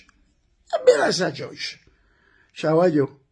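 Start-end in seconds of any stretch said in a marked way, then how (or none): 0.0-1.8 high, breaking into laughter; punchline collapsing into laughter; cry-laughing. Real, not acted. Battuta finale tra le risate. (ridendo fino alle lacrime)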